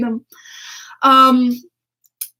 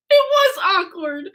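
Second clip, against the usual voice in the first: laughing; 5 semitones higher, slower than usual. Real, not acted. Laughing aftermath.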